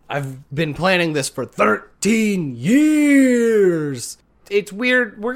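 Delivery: lightly voiced villain, slow and drawn out; a hint of a weary villain; Hades voice. Hades complaining to the heroes, lightly voiced and slow. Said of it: "And Hades is just like".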